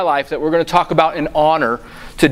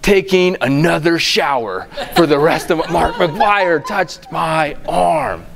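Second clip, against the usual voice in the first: laughing; slower than usual. Retold or imitated. Starstruck kid retelling the touch.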